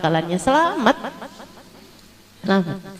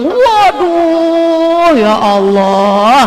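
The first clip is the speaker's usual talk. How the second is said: high swooning gasp, drawn out with a laugh; mock fan squeal; 6 semitones higher, 4 dB louder, much slower than usual. Preacher imitating swooning teen fans, mock squeal. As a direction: play a starstruck fan, hamming it.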